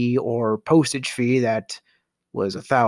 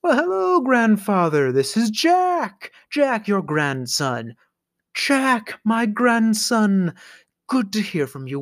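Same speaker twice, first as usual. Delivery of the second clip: fake grandson; 5 semitones higher than usual. Scammer posing as grandson greets grandfather, high and syrupy. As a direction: lay it on thick as a sweet grandson. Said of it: "this gentleman says".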